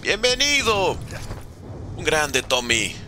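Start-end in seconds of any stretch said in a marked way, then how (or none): 0.0-1.0 much higher, bright welcome to a fan; excited greeting. Real, not acted. Streamer greeting his supporter Tommy, much higher and excited. Greeting a chat donor by name.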